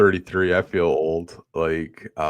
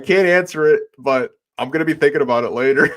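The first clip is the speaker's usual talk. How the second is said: imitated player; 6 semitones higher, 7 dB louder, faster than usual. Player quoted after smirking.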